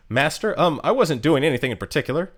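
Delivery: a hint of posh British coolness, brushing it off; mild posh British aloofness. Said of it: "she sounds super posh British".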